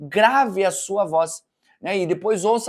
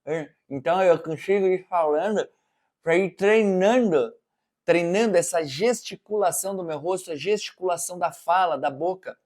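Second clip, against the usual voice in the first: talking around a knife in the mouth; knife in teeth. Shown as a demonstration. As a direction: speak with a blade held between the teeth. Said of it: "tem uma faquinha".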